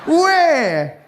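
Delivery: be stunned by the ad; laughing mock astonishment; shocked disbelief.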